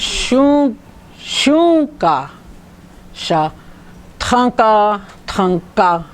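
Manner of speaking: "shunka" and "tanka" stressed on first syllable; careful Lakota stress demo. Shown as a demonstration. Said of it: "Here's is a stress emphasis right there".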